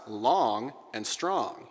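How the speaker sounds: drawn out. Shown as a demonstration. Echoing the note just demonstrated.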